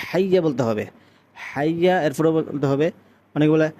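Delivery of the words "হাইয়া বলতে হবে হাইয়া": হাইয়া with a strong throaty h; clear, full h opening হাইয়া; correct ha. Shown as a demonstration. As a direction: push breath through the throat to start হাইয়া. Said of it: "হা দিয়ে উচ্চারণ করতে হবে".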